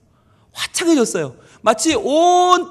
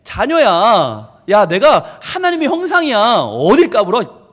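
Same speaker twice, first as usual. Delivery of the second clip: cocky, stretched-out swagger; boastful defiance; slower than usual. Acted. David telling the world whose child he is, mock-cocky boasting. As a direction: brag and dare them, drawing out the key words. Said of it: "그러면서 자랑하는 거예요".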